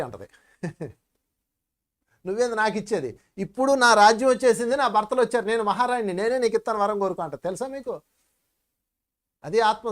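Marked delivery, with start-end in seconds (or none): 2.3-7.2 Draupadi voiced with proud, rising insistence, louder at the height; proud queen refusing. Draupadi telling the giver she is queen now, proud and insistent. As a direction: toss the offer back like a queen who needs nothing.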